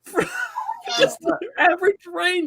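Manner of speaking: high, strained-up complaint in disbelief; exasperated rant. Real, not acted. Fan ranting about the kicker's miss, high exasperated complaint. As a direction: rant with the voice pushed way up. Ranting at missed field goal.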